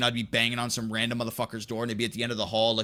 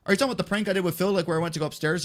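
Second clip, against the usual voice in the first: quick, higher-pitched innocent question; acting dumb; 4 semitones higher, much faster than usual. Prankster questioned by security about the hotel, playing dumb. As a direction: play innocent, as if puzzled. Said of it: "I'm acting dumb".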